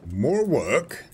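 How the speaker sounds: grumbling fantasy peasant; weary peasant sigh of a line; Warcraft peasant voice. Retold or imitated. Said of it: "Warcraft Three Peasant's Voice".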